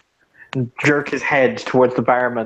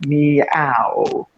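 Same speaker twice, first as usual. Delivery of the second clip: flat half-hearted meow; unconvincing meow. Acted. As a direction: meow with no effort. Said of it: "the most unconvincing meow".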